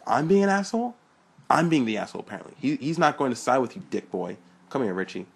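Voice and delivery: loud, high angry outburst. Acted. Dick angry at Sean in dialogue.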